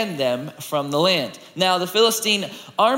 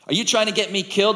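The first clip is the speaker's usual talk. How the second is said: quick, higher, mildly indignant question; demanding; 4 semitones higher, faster than usual. Acted. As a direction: demand it with a touch of alarm. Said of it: "the woman demanded".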